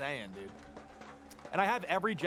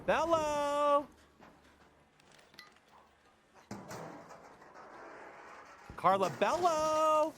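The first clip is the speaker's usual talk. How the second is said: Minion voice; 8 semitones higher, much slower than usual. Pretend. Minion greeting called out.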